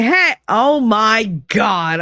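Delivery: a startled greeting trailing into slow disbelief; taken aback. Retold or imitated. Friend at the opened door seeing her pregnant, taken aback.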